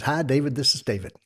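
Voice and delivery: a light North Carolina twang on a friendly phone hello; hint of a North Carolina twang, cheerful. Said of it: "that's what he sounds like".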